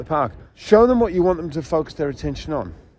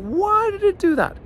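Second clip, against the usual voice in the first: much higher, puzzled exclaim; baffled by the dog's leap; surprised. Retold or imitated. Trainer puzzled by a snarling dog, high surprise. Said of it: "and I was like".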